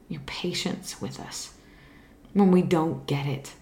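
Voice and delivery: unhurried, sincere spoken prayer to God; earnest prayer. Real, not acted. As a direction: pray it humbly, from the heart. Closing prayer.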